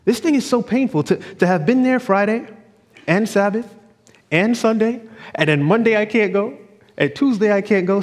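a husband voicing his wife's tearful longing to be at church. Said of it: "She's saying".

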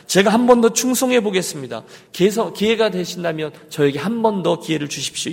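urgent, insistent appeal to God; earnest pleading prayer. Acted. Repentant believer begs God for another chance, earnest pleading. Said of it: "대신에 저의 기도는".

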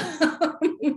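high, pulsing laugh. Real, not acted. Host cracking up mid-show, laughing.

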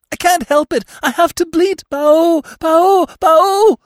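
very high, loud panicked bleat; hysterical bleating. A narrator's reading. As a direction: bleat it out like a terrified young deer. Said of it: "she went on".

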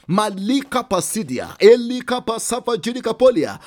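loud, fervent tongues between prayers; speaking in tongues. Acted. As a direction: pour out syllables in tongues. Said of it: "If you can speak in tongues".

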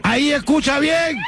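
high-pitched mock test call.

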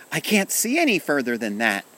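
put-on high, loud child's protest; shouted. A narrator's reading. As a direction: call it out from up on tiptoe. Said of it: "he shouted".

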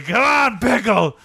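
a touch of stadium cheer. Retold or imitated. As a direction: cheer the pickle on again. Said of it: "We were saying".

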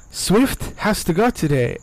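slow retold slip into a Mexican accent. Retelling a slip at work to the shipping guys, Mexican accent. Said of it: "The Mexican just came out of me".

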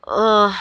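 short "ugh" of frustration; exasperated groan. Real, not acted. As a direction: groan at having no words for it. Exasperated, lost for words.

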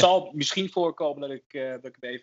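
blocked nose from hay fever; stuffy nose. Real, not acted. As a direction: talk congested, nose stuffed up. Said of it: "ik klink wat verkouden". (verstopte neus)

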